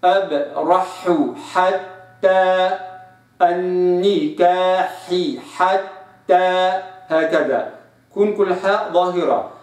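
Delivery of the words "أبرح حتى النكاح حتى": أبرح حتى النكاح حتى very slow, each word apart. Shown as a demonstration. Teacher separating words, slow. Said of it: "أو أخلص كلمة من كلمة".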